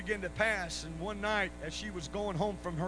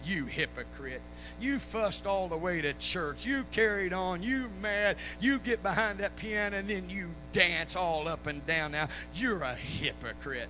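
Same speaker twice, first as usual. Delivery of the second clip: imitated accusing tirade, punching each charge; scolding wife; 5 dB louder, slower than usual. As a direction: tell him off like a fed-up wife. Wife scolds husband in story.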